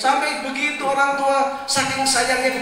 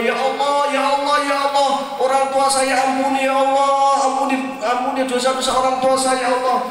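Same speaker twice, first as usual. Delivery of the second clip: fast, earnest pleading to God; pleading child's prayer. Acted. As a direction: beg God for your parents' forgiveness. Child prays for dead parents. (doa anak yang memohon dengan sungguh-sungguh)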